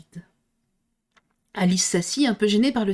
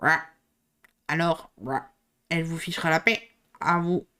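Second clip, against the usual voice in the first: panting frog; 4 semitones lower than usual. Acted. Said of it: "tout haletante".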